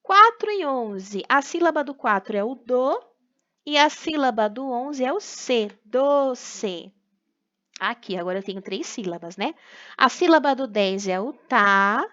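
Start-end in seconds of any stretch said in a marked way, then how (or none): 5.8-6.9 "Doce" split slowly into do and ce; syllable by syllable. Shown as a demonstration. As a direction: sound out "Doce" in two separate syllables. Joins syllables to form the word.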